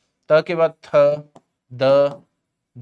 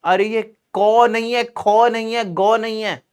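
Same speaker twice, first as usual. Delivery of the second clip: exasperated correction; 3 semitones higher than usual. Real, not acted. Mock protest at Bihari letter sounds.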